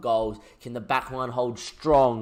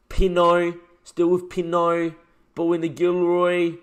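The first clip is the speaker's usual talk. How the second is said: panicked commentary; 4 semitones higher, 6 dB louder than usual. Real, not acted. Near concede, panicked commentary.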